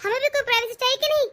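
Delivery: indignant, rising protest; wife objecting to husband bringing sister-in-law, angry; angry complaint. Acted. Wife quarrels with husband Arif.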